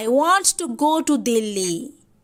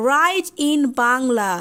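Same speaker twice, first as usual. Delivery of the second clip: slow teaching read; 2 semitones lower, much slower than usual. Shown as a demonstration.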